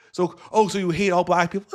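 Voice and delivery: put-on scandalised challenge; mock outraged question. Acts out Piers pressing the accusation.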